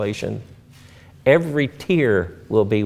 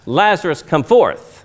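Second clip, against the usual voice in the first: a commanding cry of Lazarus, come forth; Jesus calling Lazarus from the grave, shouted; preacher's shout; 6 semitones higher, 4 dB louder than usual. Retold or imitated. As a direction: call Lazarus out, higher and louder. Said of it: "And he shouts".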